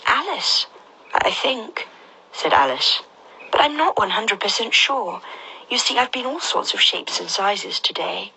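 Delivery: put-on high unsure girl voice; a hesitant young girl; Alice voice.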